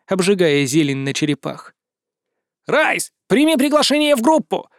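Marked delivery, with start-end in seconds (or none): 2.7-4.7 high squeaky yell. A narrator's reading. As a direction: shriek it like a tiny creature. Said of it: "завопили сверху знакомым мне песклявым голосом". (писклявый крик)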